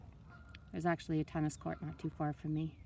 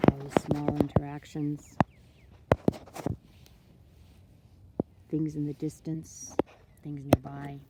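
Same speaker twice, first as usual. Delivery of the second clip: unhurried meditation voice with long pauses; guided meditation; 4 dB quieter than usual. Acted. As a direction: talk them gently through it, letting each phrase settle. Leads a water meditation.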